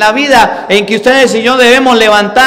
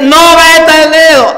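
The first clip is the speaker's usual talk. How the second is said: put-on sharp higher shout at a child; raised voice; 9 semitones higher, 5 dB louder than usual. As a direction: yell to stop the kid from touching the fire. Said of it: "levanta la voz para que su hijo no meta el dedo".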